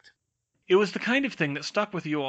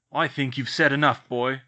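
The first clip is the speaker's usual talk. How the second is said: louder, menacing warning; growled; 6 dB louder than usual. A narrator's reading. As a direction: threaten the boy into silence. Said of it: "Uncle Vernon growled".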